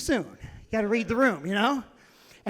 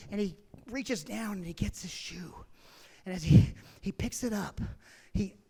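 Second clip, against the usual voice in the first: hushed; 4 semitones lower, 4 dB quieter than usual. Acted. Tense storytelling hush.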